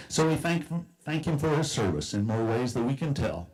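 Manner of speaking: rhyming poem recited aloud; lilting recitation of rhymed verse; cowboy poetry. Acted. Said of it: "I've written a cowboy poem".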